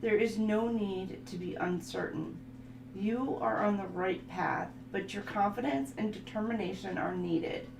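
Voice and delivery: affirmation reading. Acted. Reading card affirmations to viewers, soft and calm. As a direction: read it like a soothing card reading. Reads tarot style affirmations.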